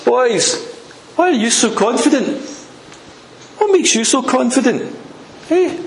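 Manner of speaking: high-pitched taunting call; taunting shout up. Acted. Enemy commander at the wall to the men, taunting shout up. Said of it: "and he shouts up".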